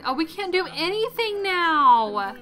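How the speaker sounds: slow, whiny mock despair; mock sad. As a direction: drag it out in hammed-up woe. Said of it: "I know we're sad".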